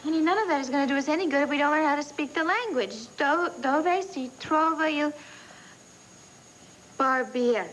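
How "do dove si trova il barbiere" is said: slow, careful Italian phrasebook practice; sounding out Italian word by word; halting Italian phrase. Acted. Wife drilling her Italian for the trip, slow and careful. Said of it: "I'm working on my accent".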